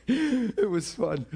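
slow words through laughter; laughing. Real, not acted. Pastor laughing about his bold reply to dad, chuckling slowly.

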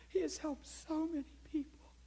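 hushed, breathy retelling of her words; imitating a whisper of praise; whispered quote. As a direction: whisper it like the tearful lady. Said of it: "She said".

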